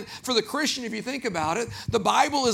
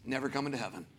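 mock checklist God; 6 semitones lower, 6 dB quieter than usual. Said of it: "with a checklist going".

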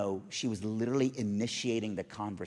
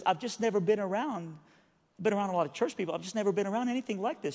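higher-pitched imitated woman's voice; bewildered cleaning lady; 7 semitones higher, faster than usual. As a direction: lift the voice, puzzled and earnest. Bewildered lady explains herself.

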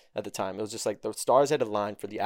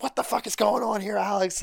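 mock confused outrage; 9 semitones higher than usual. Magic Eden voiced, confused outrage.

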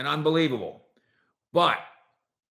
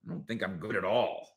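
low, soft mock self-doubting mutter; 6 semitones lower, 8 dB quieter than usual. Host voices the player's doubt, low soft mock mutter. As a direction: mumble it like an unsure player.

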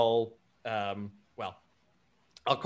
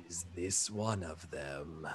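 low, slow, soft giant voice; confiding elephant person; 7 semitones lower, 10 dB quieter, slower than usual. Acted. Elephant alien asks his new companion about a newcomer, confiding. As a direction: lean in with a deep, drawn-out question. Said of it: "not at all quietly, but very close to your ear".

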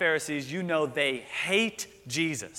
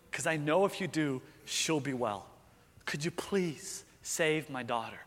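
begging Jesus. Acted. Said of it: "what that speech is like".

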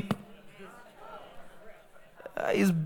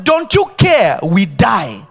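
mock panic; 5 dB louder, slower than usual. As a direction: yell at Jesus in fear. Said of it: "They said".

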